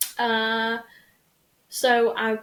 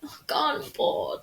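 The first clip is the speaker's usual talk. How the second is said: whisper; 5 semitones higher than usual. Retold or imitated. Bored self-talk whispered.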